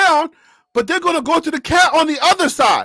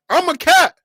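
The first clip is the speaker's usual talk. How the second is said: mock meow; 7 semitones higher, slower than usual. We're gonna be meowing.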